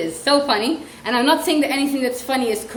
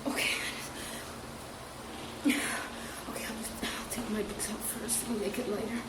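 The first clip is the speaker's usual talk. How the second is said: lightly voiced child; 12 dB quieter than usual. Acting out child getting bag.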